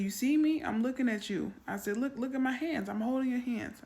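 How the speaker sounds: put-on calm a crying child; soothing mom. Mother soothing crying daughter.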